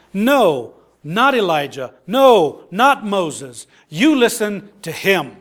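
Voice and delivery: firm rebuke with punched words; rebuking. Acted. Preacher voices the Father correcting Peter, mildly rebuking. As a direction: correct him firmly, punching each no. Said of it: "the Father is rebuking Peter".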